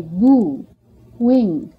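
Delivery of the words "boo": "boo" said with a clear long oo; vowel demo. Shown as a demonstration. Teacher giving a familiar word to show the vowel, carefully enunciated. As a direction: model the oo in "boo" cleanly. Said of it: "or as we say".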